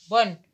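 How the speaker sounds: teacher sounding tanween. Shown as a demonstration. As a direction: sound out بن as bun. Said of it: "أقول له".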